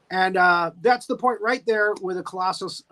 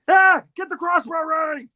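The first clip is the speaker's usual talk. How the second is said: high, loud hammed-up alarm; mock panicked shout; 9 semitones higher, 6 dB louder than usual. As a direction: yell orders in mock panic. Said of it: "they're like".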